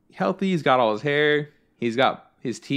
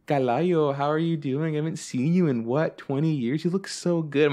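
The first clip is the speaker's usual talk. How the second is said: higher, lightly flirty coo; flirty lady; 3 semitones higher than usual. Retold or imitated. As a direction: coo it like an old admirer. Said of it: "flirting with him and being like".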